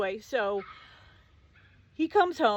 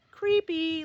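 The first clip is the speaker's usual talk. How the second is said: slow drawn-out creepy, higher; disgusted; 9 semitones higher, 6 dB louder than usual. Real, not acted. To the boyfriend about his cousin, slow disgust. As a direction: let the disgust stretch out.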